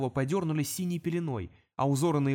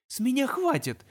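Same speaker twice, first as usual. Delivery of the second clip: imp decides; 9 semitones higher than usual. Acted. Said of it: "решил бесёнок".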